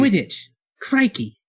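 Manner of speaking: high, hammed British slang words; mock British accent. Hosts trade British slang in a jokey accent. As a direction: shout "Quidditch" and "Crikey" like a cartoon Brit. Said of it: "British idiom".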